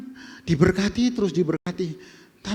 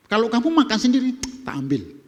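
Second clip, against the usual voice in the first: raised voice, mock threat from God; sudden loud warning; 6 semitones higher, 4 dB louder than usual. Preacher voicing God warning selfish believers, loud. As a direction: bark the warning, then drop it.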